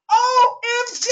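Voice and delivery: high, punched-out exclamation; thrilled astonishment. Real, not acted. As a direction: spell it out in excited amazement. Astonished at the praise report.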